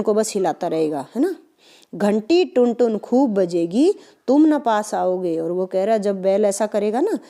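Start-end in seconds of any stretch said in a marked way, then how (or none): 1.9-5.4 poem recitation. Shown as a demonstration. Teacher reciting the poem lines.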